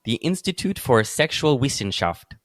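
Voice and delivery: lightly put-on German accent. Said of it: "I'm gonna do my, my German voice".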